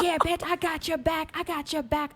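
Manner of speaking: mock a sassy concert girl; tough girl voice. Girl in crowd egging on.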